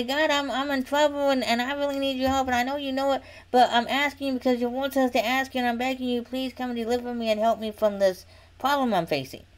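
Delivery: running, earnest petition; humble, pleading prayer. Shown as a demonstration. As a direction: plead humbly, without accusation. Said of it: "you go to God humbly".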